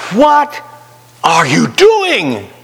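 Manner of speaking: high startled "What", then a slow drawn-out "are you doing"; a scolding conscience catching you mid-mistake; nagging little inner voice. Retold or imitated. Conscience scolding a driver crossing two lanes, shocked and slow. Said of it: "that little voice says".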